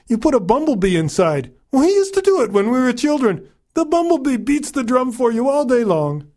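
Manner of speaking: put-on high, amused old woman; lightly voiced wise old woman; old mother voice.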